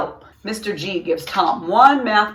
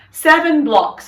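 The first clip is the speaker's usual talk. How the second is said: eager answer; 9 semitones higher, 8 dB louder than usual. A narrator's reading. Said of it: "says Pete".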